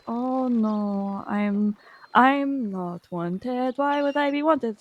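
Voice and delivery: slow, drawn-out imitation of protesting innocence; lightly acted drawling denial; mock innocent quote. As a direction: imitate a suspect stretching out his denial. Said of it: "talking like that".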